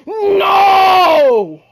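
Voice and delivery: sudden loud no at the screen; excited shout. Real, not acted. Gamer yelling at a play, loud no. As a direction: yell it out in the heat of the game.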